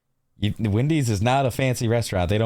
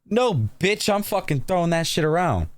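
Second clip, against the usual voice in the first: higher-pitched indignant outburst, easing at the end; mock outrage; 6 semitones higher than usual. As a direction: play up the outraged customer. Acted furious reaction against calm one.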